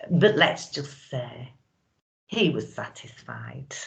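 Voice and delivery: lightly acted saucy widow reminiscing, with lingering pauses; boastful former head-turner. Widow recalling her head-turning days to the audience, saucy and boastful. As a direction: play a knowing, boastful monologue, savouring the memories.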